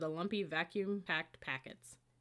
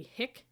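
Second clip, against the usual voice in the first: "Hick?" leaned on and pitched high, then a pause; emphasized first syllable; 6 semitones higher than usual. Acted. Gabrielle needling Hickman over his name, pointed stress. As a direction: land hard on "Hick?" and let it hang. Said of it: "She paused to emphasize the first syllable".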